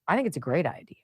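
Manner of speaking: conspiratorial whisper; whispered aside. Real, not acted. Host confides her opinion to listeners, whispered aside. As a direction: lean in and whisper it.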